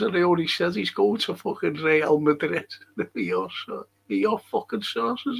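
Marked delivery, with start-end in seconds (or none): 3.0-5.4 mock indignant quote. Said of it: "he said".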